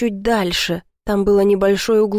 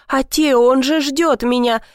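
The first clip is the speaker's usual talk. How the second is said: ordinary delivery, nothing marked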